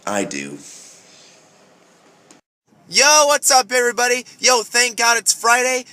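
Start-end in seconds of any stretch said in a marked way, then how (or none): 2.9-5.9 higher, louder excited yo; hyped greeting. Real, not acted. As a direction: greet them with big energy.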